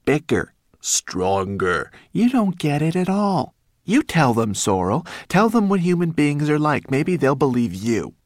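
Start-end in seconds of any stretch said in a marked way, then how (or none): 0.0-3.5 slow mockery rising to loud exasperation; mock their words, then snap higher; scornful rat echoing the dragons' boast; sarcastic. A narrator's reading. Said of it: "Rat laughed sarcastically".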